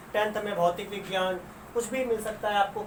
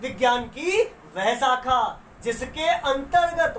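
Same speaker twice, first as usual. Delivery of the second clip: slow dictation; slower than usual. Shown as a demonstration. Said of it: "तो परिभाषा हम क्या लिखेंगे?".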